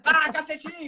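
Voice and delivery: high-pitched hammed-up shouting; mock yelling. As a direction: pretend to yell at her in a rant. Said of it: "Vai começar a gritar comigo".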